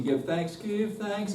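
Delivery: "thanks" spun and lifted; spin on thanks. Shown as a demonstration. Choir director shows spinning the word thanks, spun. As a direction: turn the word "thanks" a little. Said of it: "spin it on the word thanks".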